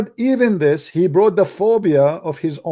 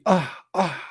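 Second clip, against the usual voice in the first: soft, drawn-out imitated yawn; mock yawn; 5 dB quieter than usual. A man yawning, softer mock yawn. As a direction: yawn it out softly. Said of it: "So when a man say".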